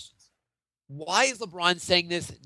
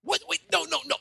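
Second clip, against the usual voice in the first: mock outrage; 9 semitones higher, 4 dB louder than usual. Pundit rejecting his co-host's calm answer, theatrically outraged. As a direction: stretch it out as if beside yourself.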